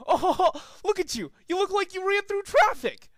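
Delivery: high, loud cackling taunt; mock the crashed pony with a Scout laugh. Pigeon mocking Rainbow Dash, high laughing taunt. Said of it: "started laughing like the scout from Team Fortress Two".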